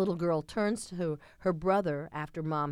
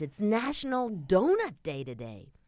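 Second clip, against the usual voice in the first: yelling; 5 semitones higher than usual. Retold or imitated. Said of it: "And he yells at Garfield".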